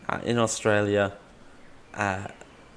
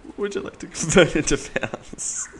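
Siri impression; 6 semitones higher than usual. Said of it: "Coruscant Siri".

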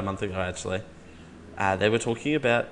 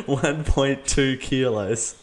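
laughing through the repeat, very slow; laughing to voice assistant; 2 semitones higher, much slower than usual. Real, not acted. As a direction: giggle while slowly repeating the words.

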